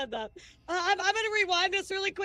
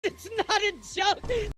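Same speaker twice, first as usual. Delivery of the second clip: insistent shout; 5 semitones higher, slower than usual. Real, not acted. Heated argument about a joke.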